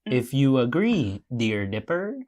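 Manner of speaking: lightly voiced, deliberate character read; Candy voice. Candy asking Dipper to agree, lightly voiced deliberate character. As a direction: measure out each word in character. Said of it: "That's how she talks".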